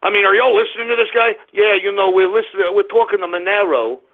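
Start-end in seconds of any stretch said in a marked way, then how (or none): 1.5-4.0 mocking impression of a supposedly Jewish accent; put-on Jewish accent, mocking; Cantwell. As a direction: mimic a caricatured Jewish accent to ridicule him. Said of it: "that's the most Jewish accent I've ever heard".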